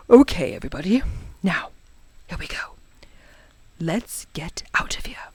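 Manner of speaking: very soft, tentative near-whisper; cautious hushed voice. Acted. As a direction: whisper it so nothing sets off again. Cautious after hiccups seem gone.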